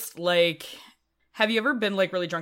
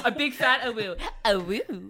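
wolf voice; 7 semitones higher than usual. Retold or imitated. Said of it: "That was so cute".

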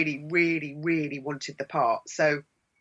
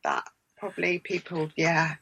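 slow, West Country-tinged Sussex burr; lightly hammed Sussex burr, bluffing along; 3 semitones higher, slower than usual. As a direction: put on a drawn-out Sussex accent. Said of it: "And I said, "Yeah, it's Sussex".

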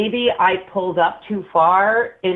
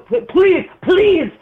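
mock pleading; 8 semitones higher, 3 dB louder, slower than usual. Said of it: "basically begging for his own life".

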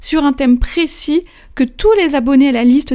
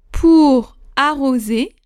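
dictating; much slower than usual. Shown as a demonstration. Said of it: "c'est parti pour cette huitième dictée".

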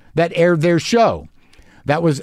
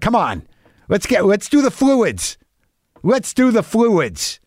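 higher, slow, strained urging; anxious urging; 9 semitones higher, slower than usual. Retold or imitated. Cat owner urging his sick cat to take fluids, strained. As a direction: coax the cat through the fluids, on edge. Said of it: "Or else I'm like".

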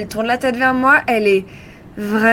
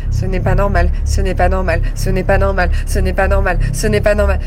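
louder, stressing pas in panic; panicked repetition; 5 dB louder than usual. Acted. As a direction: repeat it like a frightened mantra. Panic mantra grows louder.

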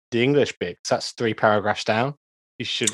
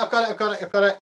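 high, breathless effort; excited straining; 11 semitones higher, much faster than usual. Real, not acted. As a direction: strain while insisting you've got it. Struggling with bottle.

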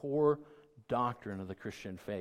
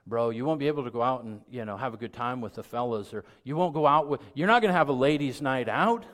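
mock pushy buddy, building louder and higher; voicing the social worldview; 4 semitones higher, 9 dB louder than usual. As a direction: needle a friend about losing his nights out, rising to a mock shout. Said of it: "That's the social worldview".

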